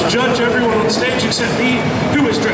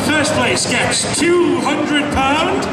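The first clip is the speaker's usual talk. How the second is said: booming prize announcer; 2 semitones higher than usual. Acted. Host announcing cosplay prizes.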